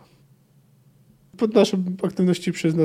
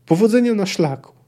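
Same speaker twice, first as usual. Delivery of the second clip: farewell shout; 6 semitones higher than usual. A narrator's reading. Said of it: "krzyknęły unisono".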